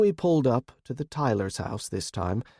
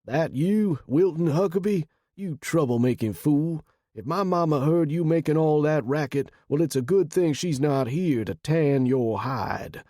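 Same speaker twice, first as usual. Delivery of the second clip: higher-pitched voice of a homeowner calling out; Sean, mock-scolding friend; 5 semitones higher than usual. A narrator's reading. Sean at the cracked door ribbing Will, mock scolding. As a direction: playfully scold a rowdy visitor from the door.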